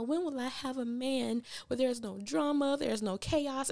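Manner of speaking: high, lightly voiced mock lament; whiny Andy. Imitating Andy complaining about drama, mild high whine. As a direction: pout a little, high and plaintive. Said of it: "she's always talking about".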